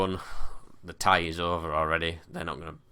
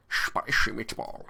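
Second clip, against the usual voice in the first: put-on failed Italian accent; 4 semitones higher, slower than usual. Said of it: "I just sound like Sean Connery".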